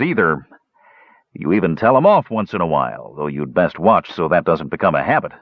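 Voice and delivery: lightly voiced uncle, drawing out the opening; teasing dwarf uncle. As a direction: grudgingly praise your stubborn nephew. Flint fondly lists nephew's traits.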